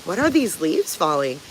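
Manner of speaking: high, loud puzzled pet voice; dog baffled by falling leaves, high and loud; voicing the dog. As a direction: play the confused Florida dog. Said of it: "Look at her. She's like".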